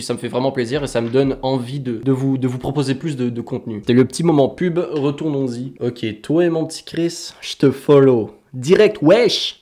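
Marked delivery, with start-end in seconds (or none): 6.2-9.6 hammed-up mix of Quebec and French slang accents. Reading a viewer's follow comment in a mixed accent. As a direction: put on a mashed-up accent, punching the last words high and loud. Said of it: "c'est un genre de mix d'accent".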